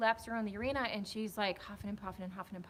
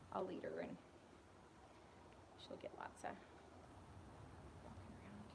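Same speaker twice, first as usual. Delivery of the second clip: much softer unvoiced whisper; hushed whisper to the mare; 19 dB quieter than usual. Real, not acted. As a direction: whisper it beside the horse. Whispered while leading horse.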